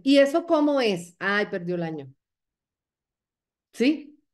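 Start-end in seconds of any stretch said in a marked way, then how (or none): 0.0-1.2 higher, louder eager question; acted burst of curiosity; curious prospect. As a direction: imitate an intrigued prospect asking. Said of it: "a veces te dicen".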